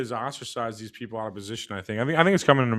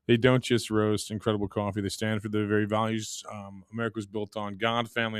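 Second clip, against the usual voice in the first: lower, even sponsor read; resume the scripted pitch in a lower register; 6 semitones lower, 5 dB quieter than usual. Acted. Host pitches coffee company's values to listeners, ad read.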